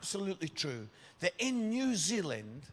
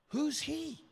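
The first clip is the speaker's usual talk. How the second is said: puzzled; 9 semitones higher than usual. Retold or imitated. Confused mum.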